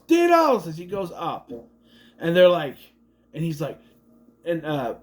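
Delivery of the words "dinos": high yell of Dinos!; mock yell. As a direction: shout "Dinos!" up at the crowd. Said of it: "so Slater yells".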